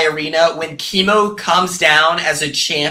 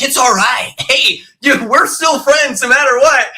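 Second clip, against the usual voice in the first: high-pitched mock reassurance over rising panic; pretending to be cool; 7 semitones higher, 3 dB louder than usual. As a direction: act out forced cheer as the boat sinks. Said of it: "pretend like you're cool".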